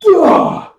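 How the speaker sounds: sudden high, loud "ugh"; mock attack noise. Reviewer mimics the sniping moment, sudden loud grunt.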